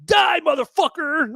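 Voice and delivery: high-pitched mock movie yell; imitated battle cry. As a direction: parrot an action heroine's catchphrase, pitched high. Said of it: "when she goes".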